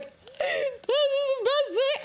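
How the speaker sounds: high, slow, swooning quote; gushing delight. Retold or imitated. Streamer recalls falling for Karlach, high swooning gush. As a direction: stretch it out like you're swept away. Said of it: "and I was like".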